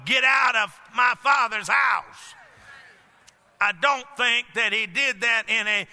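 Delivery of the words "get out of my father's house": slow, firm half-shouted order; mean every word, whip in hand; stern command to leave the house. Retold or imitated. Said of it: "picked up a whip and told them".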